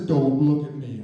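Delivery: low, firm bodyguard warning; stern low warning. Retold or imitated. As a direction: warn him off, low and hard. Stranger warns narrator not to look.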